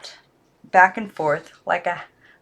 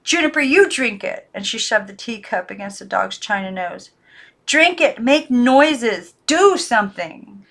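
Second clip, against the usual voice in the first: frantic shout; 3 semitones higher, 4 dB louder than usual. Acted. Girl shouts desperately at the china dog. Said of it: "she shouted".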